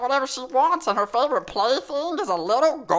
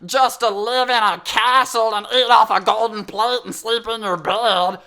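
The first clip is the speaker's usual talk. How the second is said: sly innocent; 5 dB louder than usual. Retold or imitated. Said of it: "he's trying to make it like".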